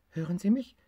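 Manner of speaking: asking again, leaning on mich; tiger on the phone. Acted. Tiger repeats his call, stressing mich.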